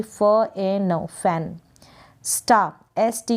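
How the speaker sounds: फ ए न spelled out slowly, sound by sound, then फैन; slow spelling out. Shown as a demonstration. Teacher slowly sounding out fan for students. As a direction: sound out each letter slowly and blend them. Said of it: "इनकी आप practice करें".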